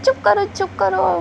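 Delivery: put-on panicked shush to a crying kid; urgent hush. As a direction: hush him fast before the parents hear. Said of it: "वाम जी कहता है".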